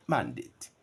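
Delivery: "mandate" with the first syllable MAN stressed. Shown as a demonstration. Teacher showing students the verb keeps first-syllable stress. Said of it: "stressed on the first syllable".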